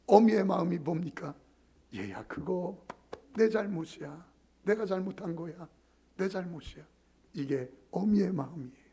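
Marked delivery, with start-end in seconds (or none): 1.9-6.8 softer, tender mother's voice; mother gently taking the blame. Retold or imitated. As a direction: soothe the quarreling children.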